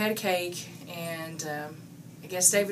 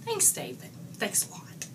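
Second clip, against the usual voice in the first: sarcastic thanks; 4 semitones higher than usual. Real, not acted.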